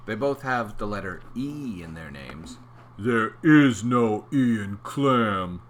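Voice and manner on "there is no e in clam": mean eel. Acted.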